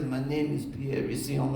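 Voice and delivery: lightly imitated Frenchman with a bad French accent. Festival man introducing himself by phone, bad French accent. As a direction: put on a rough French accent. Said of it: "I see the bad French accent".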